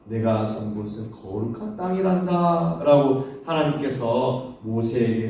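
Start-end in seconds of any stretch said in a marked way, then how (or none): 0.0-2.8 lightly voiced God, pitched low; a hint of solemn divine address; God calling Moses. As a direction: speak low as God summoning someone. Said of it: "하나님께서 모세를 부르시며".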